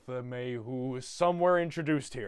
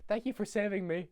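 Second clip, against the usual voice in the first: higher, sweet little-girl imitation; 5 semitones higher, 3 dB quieter than usual. Cindy thanking the Grinch, high mock child voice. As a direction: thank him in a small high voice. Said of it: "And then she goes".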